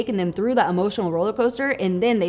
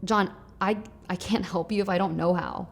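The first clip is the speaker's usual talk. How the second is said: soft empathetic tone; 2 semitones lower, 6 dB quieter than usual. Shown as a demonstration. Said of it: "pay attention to my tone here".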